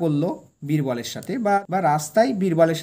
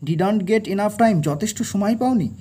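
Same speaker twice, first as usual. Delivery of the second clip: loud, slow, higher sneering echo; angry mocking repeat; 4 semitones higher, 4 dB louder, slower than usual. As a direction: throw his excuse back at him in anger. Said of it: "সম্রাট বললেন angrily".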